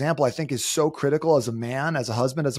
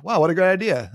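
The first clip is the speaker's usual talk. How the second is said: mock amazement; 5 semitones higher, 4 dB louder than usual. Husband voiced hearing his own idea.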